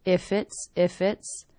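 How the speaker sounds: "If it's" joined with no gap; linked words. Shown as a demonstration. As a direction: link "If it's" smoothly. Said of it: "connecting together".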